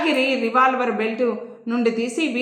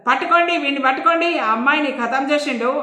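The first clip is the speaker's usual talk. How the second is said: urgent order; 3 semitones higher than usual. Acted. Inspector ordering constables to seize the shooter, urgent shout. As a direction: bark at the constables to seize him.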